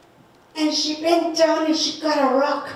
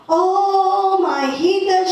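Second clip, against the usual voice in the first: warm greeting; 5 semitones higher, 4 dB louder, slower than usual. Retold or imitated. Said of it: "she said".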